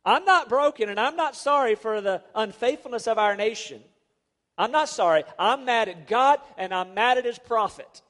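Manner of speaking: a king's bitter defiance, lightly voiced; mild angry king. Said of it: "So what the king says is".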